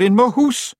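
a hint of a commanding witch; stern witch. Witch questioning the intruders.

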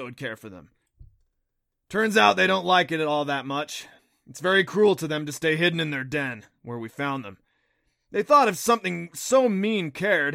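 a hint of an earnest guide character; creature guide explaining. A narrator's reading. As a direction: explain it briskly and loudly. Narrator voices Neff, the creature guide.

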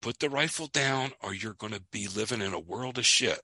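quiet warning. Retold or imitated. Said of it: "he says, I wanna tell you something".

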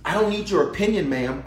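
pitched high, firm brush-off; preacher rebuking a churchgoer, dismissive. Real, not acted. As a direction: wave away their opinion. Rebuking ma'am and sir.

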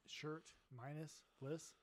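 shirt minus bliss drawn out slowly, word by word; slow joking spell-out. Shown as a demonstration. Explaining Shirtless to a friend with a slow pun. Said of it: "What word is it?".

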